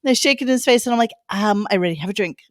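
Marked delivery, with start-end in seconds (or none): 1.3-2.4 quick, flat-out brush-off of the offer; a brisk, lower put-down at the bar; dismissive brush-off. Retold or imitated. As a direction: wave him off, unimpressed. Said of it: "just like that".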